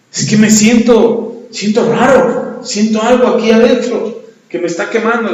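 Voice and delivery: a touch of alarm; bewildered drunk. Retold or imitated. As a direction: voice the frightened man feeling something burn. Drunk describes burning inside.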